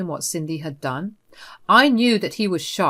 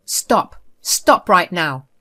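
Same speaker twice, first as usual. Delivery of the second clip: slow, louder, each word weighted; firm angry stop; 6 dB louder, slower than usual. Acted. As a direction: shut her down hard. Son cuts mother off.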